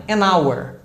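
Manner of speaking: "an hour" joined as "a-nour", H silent; vowel-sound linking. Shown as a demonstration. Teacher applies the article rule, silent H. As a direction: link the N into "hour". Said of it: "considerar o som da vogal".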